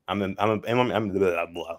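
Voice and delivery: tripping over his words, stammering; stammer, stuck on I'm; stuttering. Real, not acted. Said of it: "I'm stuttering".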